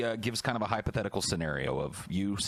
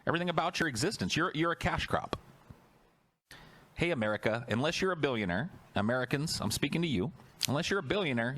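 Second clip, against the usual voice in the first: escalating comedy rant; 5 semitones higher than usual. Real, not acted.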